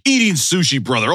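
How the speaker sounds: lightly voiced wrestler as bodyguard; a hint of wrestling promo, punching the last words; Hulk Hogan. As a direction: play a wrestler declaring devotion. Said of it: "you and Hulk Hogan".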